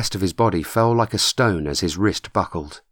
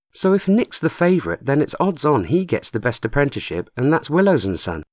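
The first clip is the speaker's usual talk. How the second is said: put-on a touch higher, keen young lad; lightly voiced young man; 6 semitones higher than usual. A narrator's reading. Nick arguing with Matt, lightly voiced eager lad. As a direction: Nick pressing his point, eager and higher.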